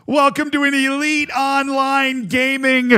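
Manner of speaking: high, bright hype-man greeting; excited welcome. Real, not acted. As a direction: pump up the new subs. Streamer welcoming new subscribers.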